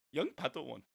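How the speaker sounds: a half-hearted go at a wise little alien; Yoda. Acted. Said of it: "Do a Yoda voice".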